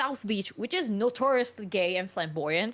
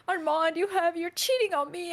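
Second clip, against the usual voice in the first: mock diva scream; 5 semitones higher than usual.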